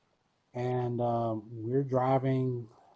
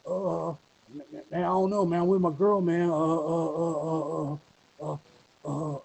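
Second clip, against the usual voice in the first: hesitant rapper; 4 semitones higher than usual. Retold or imitated. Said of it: "you hear a rapper in the background going".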